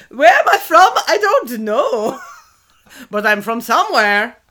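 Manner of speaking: put-on loud start, laughing muddled German-Russian accent; vague German-Russian accent. Joking about unplaceable henchmen, vague German-Russian accent. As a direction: do a wandering mock German-Russian accent, amused. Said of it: "sometimes he sounded German and sometimes he sounded Russian".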